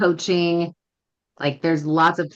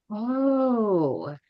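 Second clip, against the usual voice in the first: long, higher oh that falls away; dawning realization; 5 semitones higher than usual. Retold or imitated. Student shown how to do it, dawning realization. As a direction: imitate a student suddenly getting it. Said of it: "the girl was just like".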